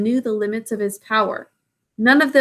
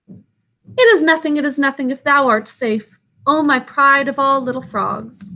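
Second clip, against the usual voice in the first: whimpering; 4 semitones higher than usual. Acted. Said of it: "whimpered Baloo".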